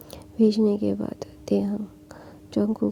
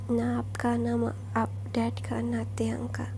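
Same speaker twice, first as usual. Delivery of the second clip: soft reassurance; 6 dB quieter than usual. Acted. Comforting his mother softly.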